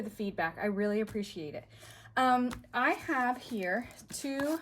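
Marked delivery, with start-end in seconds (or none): 2.2-4.6 winded, catching her breath. Real, not acted. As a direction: talk while short of breath. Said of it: "I am winded".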